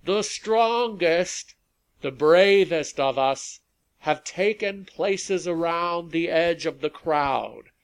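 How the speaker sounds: high, loud oratory carrying over a crowd; rally speech. A narrator's reading. Rally leader thanking police, soldiers and volunteers, orating loudly.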